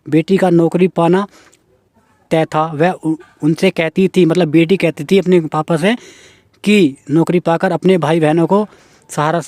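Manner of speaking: measured reading aloud of a news article; news report reading. Acted. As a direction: read the report out evenly, phrase by phrase. (समाचार पढ़ने का लहजा)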